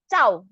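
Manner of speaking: "Cao" with a quick falling tone; nada keempat. Shown as a demonstration. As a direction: let "Cao" drop and stop short. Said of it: "nada keempat". ("Cao" nada turun, pendek)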